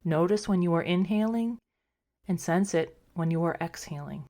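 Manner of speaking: calm, unhurried meditation guide with long pauses; guided meditation. Acted. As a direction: gently talk listeners into rest, a little softly. Leads a meditation.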